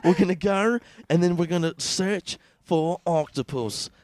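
high, loud excited nature-host voice; excited Robert Irwin. Retold or imitated. Young wildlife host heading out to find octopus, excited. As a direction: hype up the octopus hunt. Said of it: "Robert Irwin's like".

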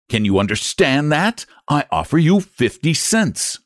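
slow, forced calm, biting sarcasm; icy sarcastic patience, slow. Acted. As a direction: spell it out as if to a fool. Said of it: "spoke slowly but with intense sarcasm".

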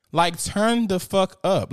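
loud, punchy call to turn up; hyped urging. Real, not acted. To livestream viewers about close friends, loud hyped urging.

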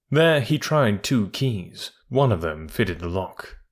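measured storytelling read, pausing between lines; audiobook narration. A narrator's reading. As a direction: carry the listener into the tale. Reads chapter as narrator.

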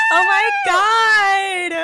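high, loud laughing shriek; mock fangirl screaming, high and loud. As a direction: shriek like a starstruck fan.

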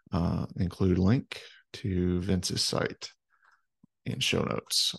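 slow note-to-self dictation; dictating a note. Real, not acted. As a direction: read the reminder out slowly as you type. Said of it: "let me just make a quick note to myself".

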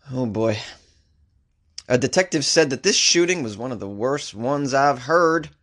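put-on Texas accent. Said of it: "That's my Texas accent".

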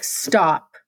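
a hint of his deep-voiced command; deep male voice. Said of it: "he's got a real deep voice".

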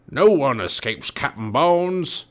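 loud, slow pirate captain roar. A narrator's reading. Captain Bones holding both children captive, roar. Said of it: "he roared".

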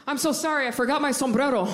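fake-sorry babbling, a touch hammed-up; overly apologetic. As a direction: gush apologies with a nervous laugh. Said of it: "I get so apologetic".

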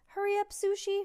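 high, loud cheering on; urgent, high-pitched plea to hurry; urgent urging. A narrator's reading. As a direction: push your lagging racer to go. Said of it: "Frank urged".

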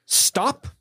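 high-pitched mock-polite request; Carrie Elwes. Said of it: "Carrie Elwes walks up and is like".

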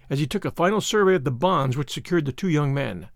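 usual speaking voice

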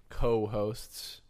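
"co-hosts" set apart after a pause; air quotes. Real, not acted. Host doubting his partner's hosting, air quotes on "co-hosts". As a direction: say "co-hosts" as if in quotation marks. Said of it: "I'm doing air quotes when I say co-host".

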